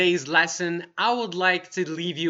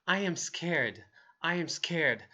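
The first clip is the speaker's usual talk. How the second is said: scared; 6 dB quieter than usual. Shown as a demonstration. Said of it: "the most common and easy way to express it".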